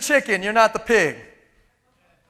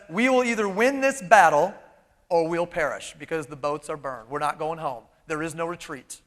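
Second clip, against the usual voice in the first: much softer, lower and grave; solemn general; 8 semitones lower, 5 dB quieter than usual. Acted. General telling his soldiers there is no retreat, soft and grave. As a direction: say it quietly like a vow. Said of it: "General looks at him and says".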